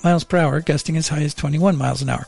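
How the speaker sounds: even, measured radio forecast delivery; weather read. Acted. Presenter giving Monterey Bay listeners the forecast, weather read.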